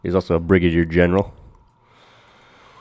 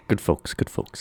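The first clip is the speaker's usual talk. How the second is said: whispered, mock-sincere praise; breathy ironic aside; sarcastic whisper; 6 dB quieter than usual. Real, not acted. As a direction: take it back with a sly hush. Sarcastic after cursing the Dutch.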